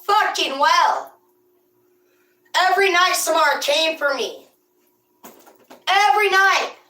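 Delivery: hammed-up horror-movie dread; spooky storyteller. Telling the audience about Samara at the farm well, mock creepy.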